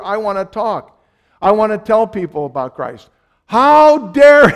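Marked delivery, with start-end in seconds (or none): 3.5-4.5 high, loud, outraged protest; indignant outburst. Retold or imitated. The Jew protesting Gentile salvation, high indignant outburst. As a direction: burst out like an offended elder. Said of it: "the Jew goes".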